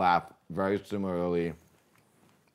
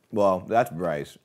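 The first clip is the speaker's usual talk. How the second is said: Kermit-like voice; 3 dB louder, much slower than usual. Retold or imitated. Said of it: "more like Kermit".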